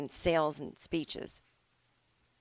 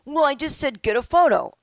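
louder, higher defensive outburst; defensive blurt; 7 semitones higher, 9 dB louder than usual. Retold or imitated. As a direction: blurt it out to cover yourself. Defendant voiced defending himself.

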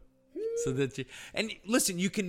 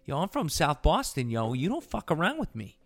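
put-on Boston accent. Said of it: "in a Boston accent".

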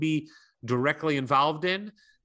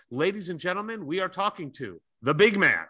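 grand entrance announcement; 2 semitones higher than usual. Acted. Emcee introducing guest.

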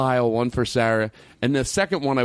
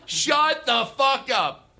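high, slow, drawn-out astonishment; stunned disbelief; 10 semitones higher, much slower than usual. Pretend. Host greets a surprise guest, hammed-up astonishment. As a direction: stretch each word out in amazed disbelief.

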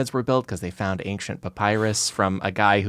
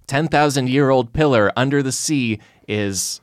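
slow, louder, raised headline voice; dramatic headline read; 4 semitones higher, 4 dB louder, slower than usual. Shown as a demonstration. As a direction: read it like a sensational tabloid. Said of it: "there was a Metro U K headline".

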